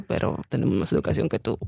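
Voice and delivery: pero tenemos más educación que tú, low and whispered; hushed retort. Retold or imitated. Retelling a comeback to mockers, whispered. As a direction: mutter the comeback under the breath.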